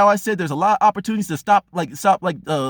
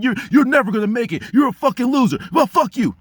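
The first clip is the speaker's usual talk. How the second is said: mock harsh self-insult; 5 semitones higher than usual. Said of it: "I'm not talking about beat yourself down".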